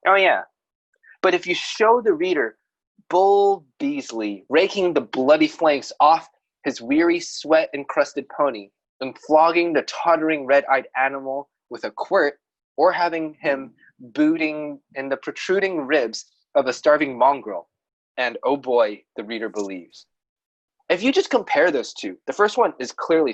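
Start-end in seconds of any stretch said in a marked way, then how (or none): 0.1-0.4 louder, dismissive "Oh, yeah."; sarcastic oh yeah. Retold or imitated. Bored reader shrugging off a tell, louder. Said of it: "the reader's reaction may be". 1.2-20.0 reading a quote. Shown as a demonstration. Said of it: "quote from Fred East".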